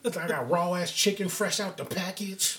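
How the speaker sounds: lightly hammed-up white American accent; mock white voice. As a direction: keep up the mock white person's recital. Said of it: "what the white version of that shit would be".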